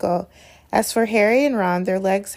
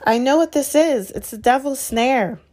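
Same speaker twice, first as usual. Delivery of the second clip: excited; 5 semitones higher than usual. Acted. Hermione excited realization.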